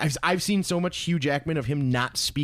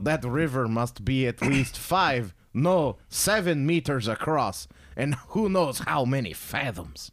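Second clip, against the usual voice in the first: quoted movie line; slower than usual. Pretend. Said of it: "what the hell is that from".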